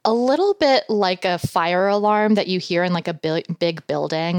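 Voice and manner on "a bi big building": usual speaking voice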